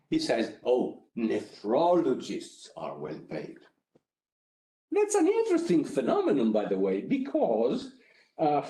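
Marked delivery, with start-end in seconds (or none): 0.6-3.6 nephrologists leaned on, slowed; slow and stress nephrologists like italics; stressed correction. Shown as a demonstration. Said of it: "with proper intonation, italics".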